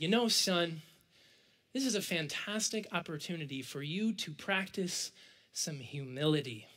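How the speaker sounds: low, soft parental advice; amused parents. Retold or imitated. Parents advising their disappointed son, gently amused. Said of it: "they laughed, and they said".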